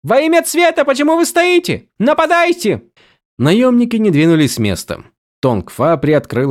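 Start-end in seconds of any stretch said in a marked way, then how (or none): 0.0-2.8 panicked orders. A narrator's reading. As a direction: shout at the guards in alarm. Vivenna panics, orders mercenaries. (испуганный высокий приказ)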